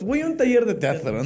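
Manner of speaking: mock excuse. Telling the whole family about theater class, cheerfully. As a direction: announce it brightly to everyone. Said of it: "A mi mamá, a todos".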